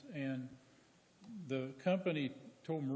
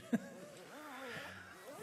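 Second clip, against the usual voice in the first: high, soft chuckle; a quiet laugh, pitched up high; real laugh; 10 semitones higher, 6 dB quieter than usual. Real, not acted. Jokes about easy snow removal.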